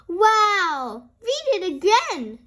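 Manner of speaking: high, loud thrilled request; excited little girl; excited cry. Acted. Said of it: "cries Peppa".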